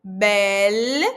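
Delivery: "Belle" com o L marcado na língua; clear L. Shown as a demonstration. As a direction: toque a língua no L final. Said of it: "ó o L lá na língua". (belle com L nítido)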